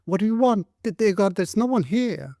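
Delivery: high, frightened voice pleading; terrified. A narrator's reading. Frightened woman behind the door answers the policeman. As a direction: shrink back in panic. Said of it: "said this terrified voice".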